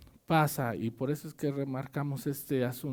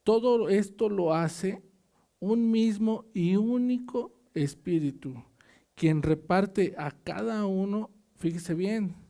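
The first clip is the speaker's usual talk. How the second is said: scripture reading. Acted. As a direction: read the verse out to the church. Reads scripture aloud to congregation. (lectura de la Biblia en voz alta)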